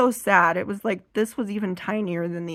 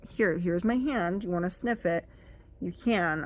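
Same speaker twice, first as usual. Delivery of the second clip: tag. Retold or imitated. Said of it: "wasn't trying to make it intimidating".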